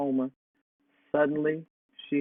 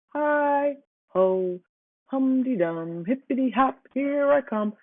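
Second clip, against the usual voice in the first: hollered song; 9 semitones higher, slower than usual. A narrator's reading. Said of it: "Hannah hollered".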